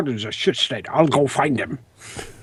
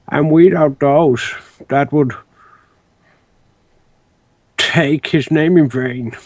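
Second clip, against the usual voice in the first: sapling; slower than usual. Acted. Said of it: "He sounds like a Treebeard seedling".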